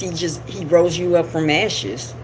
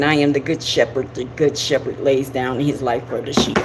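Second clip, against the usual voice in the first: scripture reading; 6 semitones lower than usual. Retold or imitated. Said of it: "and he says".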